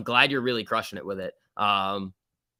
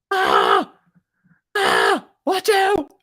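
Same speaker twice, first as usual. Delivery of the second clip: rapid hyped trader panic; 9 dB louder, much slower than usual. Real, not acted. Watching stock drop live.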